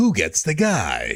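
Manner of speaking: slow, dramatic movie trailer announcer voice. Friends joking about a date, repeating a question: dramatic movie trailer voice. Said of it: "let me do my movie trailer voice".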